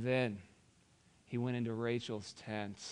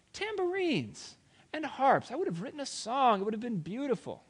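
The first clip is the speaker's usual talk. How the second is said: much higher, whiny self-pity; mock hurt; 12 semitones higher, 6 dB louder than usual. Laban pretending he'd have thrown a farewell feast, whiny. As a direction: play the wounded host, overdone.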